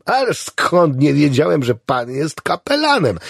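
high, emphatic amazement; delighted exclamation. A narrator's reading. Patient assures chaplain he had no idea, delighted. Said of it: "krzyknął zachwycony".

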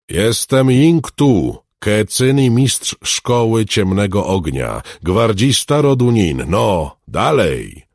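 slow, high, loud proclamation; roaring. A narrator's reading. Alchemist challenges the frozen henchmen, roaring slowly. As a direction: roar out your titles, drawing out each phrase. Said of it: "ryknął Rudnicki".

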